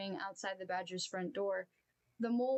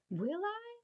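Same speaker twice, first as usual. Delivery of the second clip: relieved; 12 semitones higher than usual. Acted. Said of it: "said the relieved Toad".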